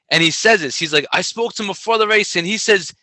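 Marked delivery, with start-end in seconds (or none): 1.1-2.9 higher-pitched announcer relaying a quote; raised, projected commentary voice; race announcer. Retold or imitated. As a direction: imitate the announcer hyping up the runner. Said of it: "on the microphone".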